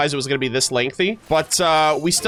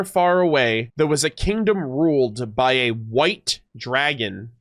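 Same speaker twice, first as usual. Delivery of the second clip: fairy-tale narration. Acted. Storyteller offers a different kind of story, deliberate fairy-tale telling. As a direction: savor it like an old legend.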